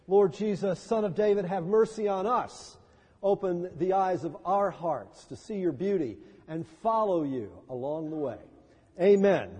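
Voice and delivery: earnest, measured prayer voice. Acted. Pastor leads a prayer.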